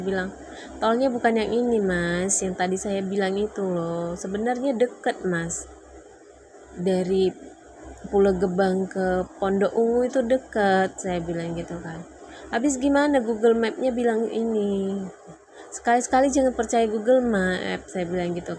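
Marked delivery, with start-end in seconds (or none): 0.8-11.0 raised, louder insisting tone; arguing back at her husband in the car, reliving it; heated retold protest; retold argument. Retold argument with husband over toll road. 12.5-17.9 higher and louder, exasperated; heated exasperated retelling; retold argument.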